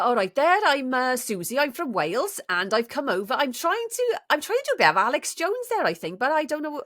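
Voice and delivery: high, lilting Welsh accent. Shown as a demonstration. Cohost asked for Welsh, high Welsh accent. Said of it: "Do Welsh".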